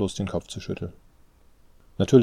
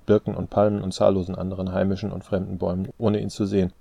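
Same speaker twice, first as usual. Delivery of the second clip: plain reading voice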